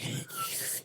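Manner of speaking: very high, soft whistling hiss; imitated whistling speech noise. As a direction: mimic a whistle through a cleft palate. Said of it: "like, whistling and fucking, like".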